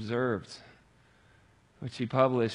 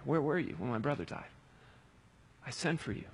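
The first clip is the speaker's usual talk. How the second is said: quiet plea; 6 dB quieter than usual. Acted. Martha quietly asking Jesus where he was, hushed. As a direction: ask it quietly, almost to yourself. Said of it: "Like Martha asks here".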